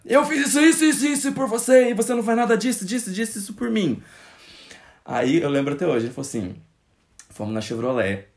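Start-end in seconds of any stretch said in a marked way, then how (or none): 0.1-4.0 imitating a father rubbing his favors in, high and mocking; guilt-tripping father. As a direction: parody the dad listing everything he did. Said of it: "aquela pessoa de jogar na cara".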